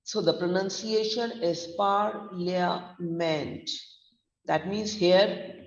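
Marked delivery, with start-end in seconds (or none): 1.8-3.7 "parliament" with PAR long and stressed, then weaker syllables; long stressed first syllable. Shown as a demonstration. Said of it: "first syllable par is long stressed".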